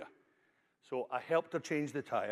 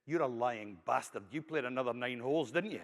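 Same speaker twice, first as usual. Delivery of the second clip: scornful wife; 3 semitones lower than usual. Acted. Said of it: "And she says".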